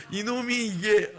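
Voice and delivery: loud, high, drawn-out mock anger; slow, indignant growing outrage; fuming boss. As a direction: act out an enraged manager. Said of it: "이러면서 더 열받은 거야".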